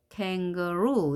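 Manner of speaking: "kangaroo" drawn out toward a stressed ROO; kan-ga-ROO, slowly, weight on the end; final stress. Shown as a demonstration. Teacher models reading it, "kangaroo" stressed on last syllable. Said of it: "이렇게 읽어주게 되겠죠".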